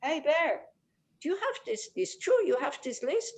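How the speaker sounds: a hint of a timid little animal asking upwards; bunny rabbit. Bunny asking the bear about his list, lightly voiced bunny rabbit. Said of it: "you know, the bunny rabbit".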